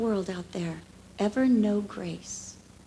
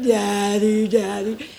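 put-on little girl; 3 semitones lower, 6 dB louder, slower than usual. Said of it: "she's like".

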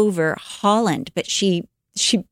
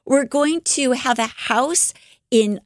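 higher, earnest voice for Betsy; a sister's bright hopeful vision, voiced higher; Betsy's vision; 4 semitones higher than usual. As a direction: lift the voice as the hopeful sister describing her vision.

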